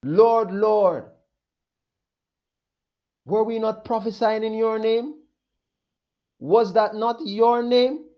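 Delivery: pleading crowd. Acted. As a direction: beg as though cast out.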